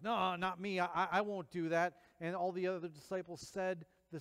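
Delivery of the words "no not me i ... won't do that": Peter protesting. Retold or imitated. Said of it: "And Peter goes".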